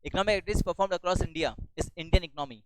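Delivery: slow, word by word dictation. Shown as a demonstration. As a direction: spell it out slowly for notes. Teacher dictating a definition. (धीमे-धीमे लिखवाना)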